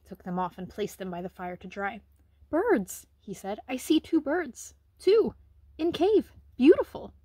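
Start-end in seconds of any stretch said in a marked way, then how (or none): 2.5-3.0 high, loud and eager; bursting with news; boy blurting to the housekeeper, high and eager; excited boy. Acted. Excited boy telling of birds. 3.7-7.1 put-on high, loud, slow eager child; overflowing with wonder at the birds; boy telling the housekeeper of the nest, high and loud; excited broken English.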